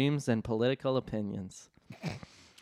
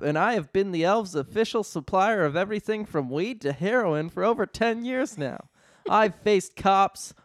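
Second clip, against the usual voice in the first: Buddy defiant; 5 semitones higher than usual. Acted. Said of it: "Buddy stood up and spoke".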